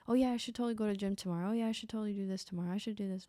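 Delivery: very fast, breezy and fading; mock hollow promises. Mocking someone who talks about everything that way, fast breezy hollow promises. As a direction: rush through promises you'll never keep. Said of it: "you just talk like that about everything".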